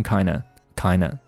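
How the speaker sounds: "kinda" fast, with no d; "kinda" reduced to "kina"; quick weakened kinda. Shown as a demonstration. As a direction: rattle off "kinda" as kai-na. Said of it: "当你读得更快的时候".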